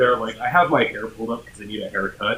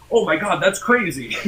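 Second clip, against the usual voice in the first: higher-pitched retold amazement; amazed reaction; 8 semitones higher, 3 dB louder than usual. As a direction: imitate a delighted, astonished acquaintance. Retold amazed mutual at con.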